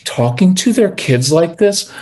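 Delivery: put-on lightly sugary talking-to-kids voice; sweet parent tone. Shown as a demonstration. Coach imitating parents who coddle their kids, mildly sweet tone. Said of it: "watch that really sweet tone".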